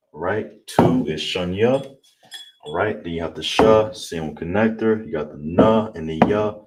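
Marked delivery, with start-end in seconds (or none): 1.2-2.0 shunya said slowly and clearly for the class; Hebrew number demo. Shown as a demonstration. Teacher to class modelling shunya, slow and clear. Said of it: "How you say two is shunya".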